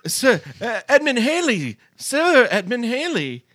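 laughing mock address. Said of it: "he goes".

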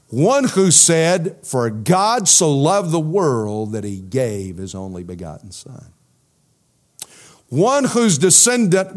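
fervent sermon delivery; preaching climax. Acted. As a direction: build the contrast line by line from the pulpit. Preaching climax contrasting two lines.

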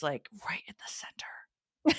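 breathy slow whisper of a confession. Real, not acted. Confessing her crush to her cohost, whispered. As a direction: let it slip out as a whispered secret.

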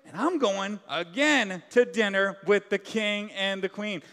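a mock-jubilant, sing-song boast from a proud man; gleeful Haman. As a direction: play Haman full of himself, a touch of a crowing strut. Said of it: "He's singing along like".

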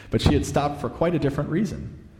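animated, expressive storybook reading; story narration. A narrator's reading. Preacher reading a Narnia scene to listeners, storytelling. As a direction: read the tale aloud with lilting emphasis.

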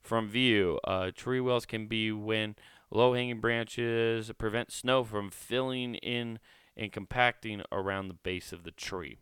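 slow, careful read-out of the text; reading aloud. Shown as a demonstration. Podcaster reading the guide to listeners, slow read-out. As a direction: read it like a safety pamphlet. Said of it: "It just says".

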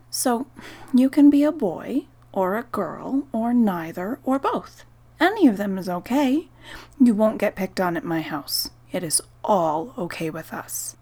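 gentle reassurance with a lifted pitch; gently. Acted. Parent reassuring the child spirit: gentle, lifted voice. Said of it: "I said gently".

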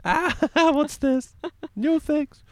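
high, drawn-out comic dismay; hammed-up bewildered cry; mock panic. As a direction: wail it slowly in pretend despair. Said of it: "game development in a nutshell".

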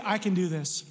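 P=A; stress on I. Retold or imitated. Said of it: "He didn't say".

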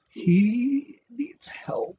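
slow, hushed whisper; slow deadpan whisper about a friend. Retold or imitated. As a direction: whisper it like a worried aside. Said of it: "looked at me and went".

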